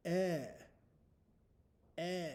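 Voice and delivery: a clipped, short Eh; short e sound. Shown as a demonstration. Teacher modeling the short e sound. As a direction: say Eh short and open. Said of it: "the letter that makes this sound".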